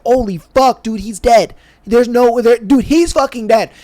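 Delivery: mock horror at a dead friend; shocked. Boys realising their friend is dead, shocked.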